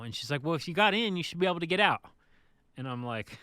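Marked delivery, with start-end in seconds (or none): 0.4-2.0 louder, higher mock insistence; insistent retort, pitched up; retold exasperated operator. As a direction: imitate an impatient gate operator. Retold gate operator scolding him.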